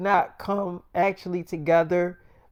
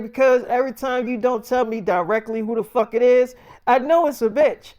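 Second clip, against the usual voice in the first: mock jealous accusation; 5 semitones higher, 4 dB louder than usual. Zendaya accusing him.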